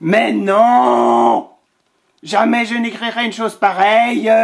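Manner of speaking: loud indignant lion; outraged lion, loud and high; lion refusing. Acted. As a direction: bark out the refusal like an offended lion.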